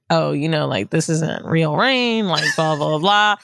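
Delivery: low, slow mock conspiracy friend; low droning blah blah; imitating friend. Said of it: "he was like".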